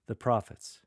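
THE PROPHETS set apart by a slight pause before and after; brief break, then "the prophets", then another break; slight pauses around. Shown as a demonstration. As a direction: give "the prophets" its own beat. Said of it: "Pause slightly before and after the prophets".

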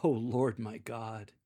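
slow, humbled and awed; overwhelmed to be chosen; humble shock. Shown as a demonstration. Solomon before God, humble and shocked. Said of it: "humility and unworthy shock".

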